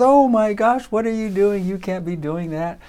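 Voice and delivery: high, loud mock outburst easing down; freaked-out teacher. Teacher catches a boy tearing books, retold freak-out. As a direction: imitate an appalled teacher, pitch leaping up. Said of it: "the teacher freaked out".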